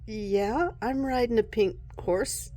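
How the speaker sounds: unbothered, challenging comeback; sassy attitude. Acted. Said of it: "her attitude is so".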